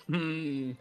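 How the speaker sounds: imitating everyone going "hmm"; drawn-out, doubtful hum for the whole group; collective pondering hum. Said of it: "I assume that everyone, like".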